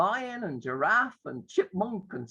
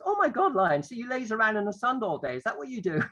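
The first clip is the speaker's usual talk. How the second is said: higher-pitched, playful mock amazement; pretending to misunderstand; 4 semitones higher than usual. Teacher teases the roaring lion, playful mock surprise. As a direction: act amazed, as if you've misunderstood. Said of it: "pretend to kind of not understand".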